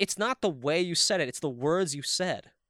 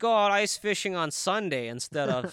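put-on hesitant, rambling Minnesotan accent; totally Minnesota. Minnesotan musing about ice fishing, hesitant Minnesota accent. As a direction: think it over aloud in a Minnesota accent. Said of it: "that's totally Minnesota".

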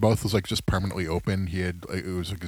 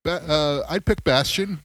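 Bobby Heenan impression; 10 semitones higher than usual. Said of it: "he was just like".

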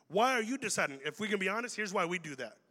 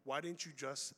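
hurt reaction; 7 semitones lower, 8 dB quieter than usual. Pretend. Hurt reaction to late invite.

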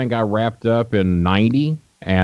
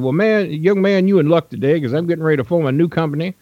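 much higher put-on old promoter voice; imitating Nick Gulas; 9 semitones higher than usual. Old promoter greeting a young fan, high imitated voice. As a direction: play the old wrestling boss greeting a stranger, pitched way up. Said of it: "That, that's kinda how he talked".

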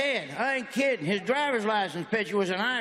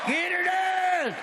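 high, long-held catchphrase cry; drawn-out catchphrase; 8 semitones higher, much slower than usual. Shown as a demonstration. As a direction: stretch the catchphrase out high and slow. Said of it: "I should do this".

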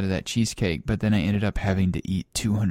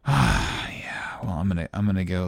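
whisper; 3 semitones lower than usual. Acted. Whispered queasy exit.

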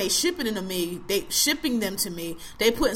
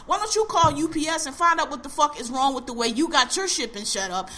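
angry rant; 5 semitones higher than usual. Real, not acted. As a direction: tear into the shipper. Rant at shipper over email.

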